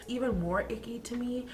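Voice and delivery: hushed confiding whisper; soft conspiratorial whisper. Real, not acted. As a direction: whisper it like a guilty secret. Confessing a petty ick.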